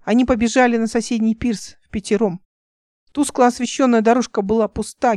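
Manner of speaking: plain reading voice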